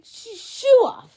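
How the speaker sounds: high, slow stammered child's attempt; struggling child. Child tries to ask for the shoe off, high halting stammer. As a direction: stumble over it like a small kid trying. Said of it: "they might say".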